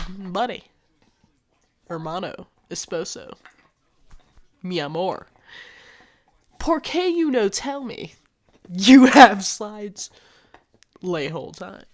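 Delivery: hammed-up Spanglish scolding, with a loud stretched "you have slides"; mock Spanglish scolding. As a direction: playfully berate him in a mock Spanish accent.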